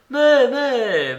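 high, loud impatient command; impérieuse babouchka. A narrator's reading. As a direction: order sharply as the old lady, high-pitched. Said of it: "me commanda-t-elle". (ordre impérieux, voix aiguë)

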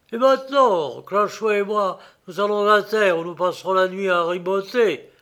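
lightly voiced rough shipmate; sailor's voice. Garbeau speaks to Gréville.

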